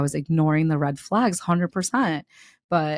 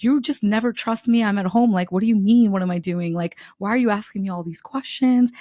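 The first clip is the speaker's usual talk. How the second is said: put-on a louder, indignant boyfriend voice; mock defensive boyfriend; 4 semitones higher, 4 dB louder than usual. Imitating the gaslighting boyfriend, mock indignant. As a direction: play him brushing off her questions.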